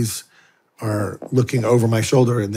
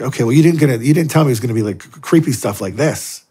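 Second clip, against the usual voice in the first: alarmed protest; 3 semitones higher, 5 dB louder, faster than usual. Retold or imitated. Retorting to the Monsignor, alarmed.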